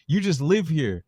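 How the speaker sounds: a lightly voiced corrupt cop boasting; movie villain's swagger, lightly played; quoting Alonzo. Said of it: "It's like".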